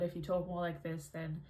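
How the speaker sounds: only slightly nasal placement. Shown as a demonstration. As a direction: bring the sound down out of the nose. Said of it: "I'm still a little bit nasal".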